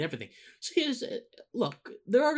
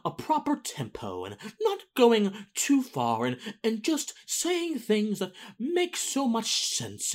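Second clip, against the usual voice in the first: slow, high, lightly posh mock aristocrat; a hint of a haughty British toff; 8 semitones higher, slower than usual. Host mocking polished political speech, light aristocrat lilt. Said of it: "I sound like a British aristocrat right now".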